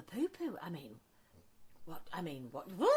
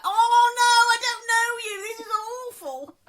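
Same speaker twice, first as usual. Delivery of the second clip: higher, louder panicked cry; mock horror; 10 semitones higher, 13 dB louder than usual. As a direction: squeal it in dismay. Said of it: "I was like".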